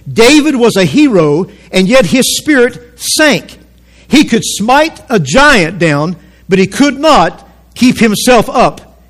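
slow, deliberate reading with weighted phrases; measured pulpit reading of a quotation; dramatic quote reading. Acted. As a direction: read the quote gravely, pausing between phrases. Reads out a writer's quote.

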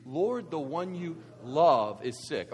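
slow group reading, "love" held long; stress on love. Shown as a demonstration. Preacher leading the congregation in reading, stress on "love". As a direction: lead them slowly up to a drawn-out "love". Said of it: "read that quote with me".

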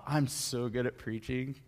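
whispered, smug self-praise; mock boastful whisper. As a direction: whisper the brag like a vain preacher. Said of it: "it'd be like me hopping off".

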